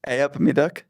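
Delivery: questioning American take on "Hey up, me duck"; American accent. Shown as a demonstration. Guest tries host's local greeting, American accent. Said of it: "say in an American accent".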